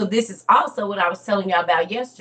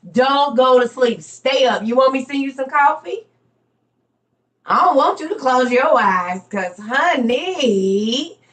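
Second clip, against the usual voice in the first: higher, louder, slowed pleading; urgent plea; 6 semitones higher, 4 dB louder than usual. Retold or imitated. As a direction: beg her to stay awake. Pleading mother stay awake.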